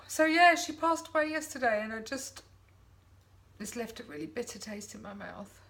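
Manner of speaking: holding back tears; crying. Real, not acted. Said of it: "I'm having a real weepy moment".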